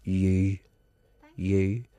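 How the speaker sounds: "You" said slowly on its own; problem U sound. Shown as a demonstration. Teaching the sound people cannot say, "You" isolated. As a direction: isolate "You" as a dialect vowel. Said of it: "the U, U sound is the one".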